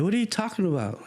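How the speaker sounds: high-pitched mock disbelief; indignant protest. Kids answering the dance director, indignant high-pitched protest.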